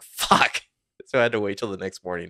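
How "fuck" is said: whispered curse. Retold or imitated. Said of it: "and I was like".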